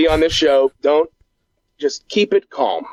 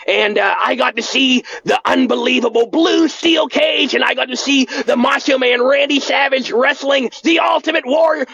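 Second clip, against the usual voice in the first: excited shout; 6 semitones higher than usual. Acted. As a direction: yell with childhood wrestling joy. Stop getting so excited.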